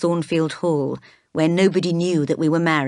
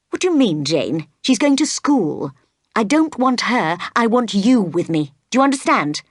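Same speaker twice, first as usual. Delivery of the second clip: agitated insistence; 4 semitones higher than usual. Acted. Rochester pressing Jane, becoming angry.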